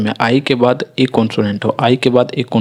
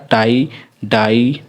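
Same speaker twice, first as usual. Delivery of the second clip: slow example words; much slower than usual. Shown as a demonstration. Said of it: "फिर next हमारा".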